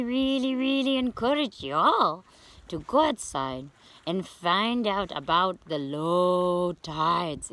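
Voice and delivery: put-on playful beach critter teaching children, words stretched for emphasis; shell-dwelling beach creature. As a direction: talk like a friendly little shell creature explaining to kids.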